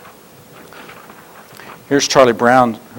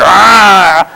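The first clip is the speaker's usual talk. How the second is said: mock angry yell; 4 semitones higher, 5 dB louder than usual. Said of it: "give me the sound of anger".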